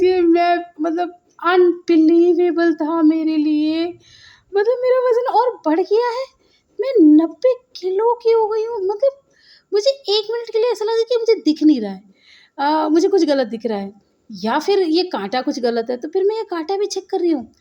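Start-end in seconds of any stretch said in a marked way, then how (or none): 0.0-12.0 shocked. Real, not acted. Shock at weight gain on scale.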